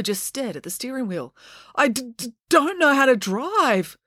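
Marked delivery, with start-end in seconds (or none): 1.7-4.0 high, stuttering admission; stammer, then stretch out the confession high; panicked stammer. A narrator's reading. Panicked Joe stammers at the wheel.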